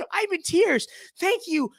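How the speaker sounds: high, sugary mock sincerity; mocking gush. Vlogger reads a gushing tweet, sugary mocking voice. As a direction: lay the sweetness on thick.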